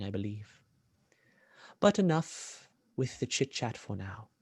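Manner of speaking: measured, formal villain voice; fascinated, courteous villain. Acted. Villain studying a rare captive, politely fascinated. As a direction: savour the discovery, lightly voiced villain.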